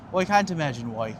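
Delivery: hammed-up Irish lilt; put-on Irish brogue for a laugh; mock Irish accent. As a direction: do a jokey, bad Irish accent. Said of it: "Me and my flawless Irish accent".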